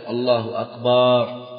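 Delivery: slow "الله أكبر" with a long "aa" after the b; lengthened baa. Shown as a demonstration. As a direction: stretch the last vowel of "أكبر" to "akbaar". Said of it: "أن لا يمد الباء".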